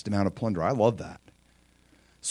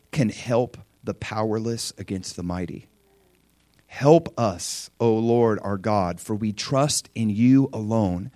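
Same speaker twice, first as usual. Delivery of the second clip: read prayer; 3 semitones lower than usual. Acted. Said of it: "Listen to this prayer".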